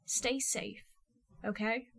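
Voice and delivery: each syllable set down slowly and softly; deliberately paced. A narrator's reading. Cass to Steph at the window, quiet and deliberately paced. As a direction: Cass measuring every word. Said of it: "each syllable deliberately paced".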